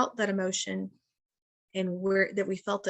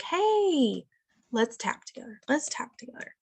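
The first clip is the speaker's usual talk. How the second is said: gentle coaxing; 3 semitones higher than usual. Retold or imitated. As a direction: imitate a parent gently coaxing the kids. Parent voiced coaxing child to tap.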